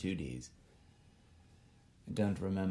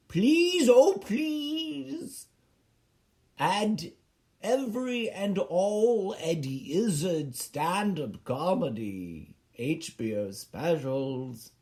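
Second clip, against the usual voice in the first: mock pleading; 4 semitones higher, slower than usual. Begging HBO to add the specials, a hammed-up high plea. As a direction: plead dramatically like a desperate fan. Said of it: "I was writing a letter".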